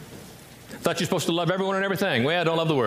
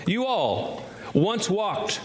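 southern accent; 3 semitones higher, much slower than usual. Shown as a demonstration. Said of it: "sounds like a southern accent".

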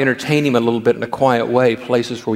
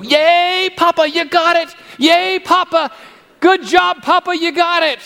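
put-on excited little boy. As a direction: squeal like a three-year-old cheering Grandpa. Grandson Ian cheering grandpa.

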